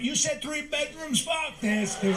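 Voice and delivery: mock high voice. Mocking friend in high voice.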